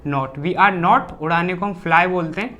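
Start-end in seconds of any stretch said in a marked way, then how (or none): 0.1-1.2 very slow, word by word for the class; slow dictation. Shown as a demonstration. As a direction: spell it out slowly so students can write. Teacher dictating English sentence slowly. (बहुत धीरे, शब्द-दर-शब्द बोलना)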